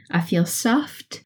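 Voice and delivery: calm. Acted. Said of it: "I'm very calm right now".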